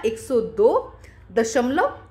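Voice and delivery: एक सौ दो दशमलव said slowly, word by word; slow dictation. Shown as a demonstration. Teacher slowly dictating the number to pupils. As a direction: spell out एक सौ दो दशमलव slowly for the class. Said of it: "तो यहाँ पे क्या आ जाएगा".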